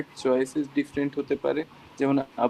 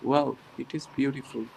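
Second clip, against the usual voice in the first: slow deadpan "Wow, it is beautiful", no surprise in the tune; flat wow; 3 dB quieter, much slower than usual. Shown as a demonstration. Teacher shows the class a wrong flat intonation, deadpan. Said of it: "হইল না".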